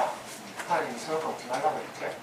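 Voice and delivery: a lightly voiced serpent, hushed and coaxing; whispering serpent. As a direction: lean in and tempt softly like a snake. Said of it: "뱀이 속삭이는 거야". (속삭이듯 유혹하는 뱀 흉내)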